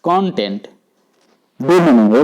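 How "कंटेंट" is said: कंटेंट said as KON-tent, falling away after KON; stress on first syllable. Shown as a demonstration. Teacher repeating the noun form, first syllable stressed. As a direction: lean on the opening syllable of कंटेंट. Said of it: "कौन पर अगर हम stress दें".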